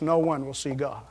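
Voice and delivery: hushed, breathy whisper; whispered scripture; whispered verse. Real, not acted. Quoted verse dropped to whisper.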